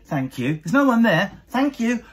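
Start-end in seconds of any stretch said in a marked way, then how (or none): 0.0-0.5 imitating wife thanking herself. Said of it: "Lindsay thanks herself". 1.5-2.0 higher mock self-thanks. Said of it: "Lindsay thanks herself".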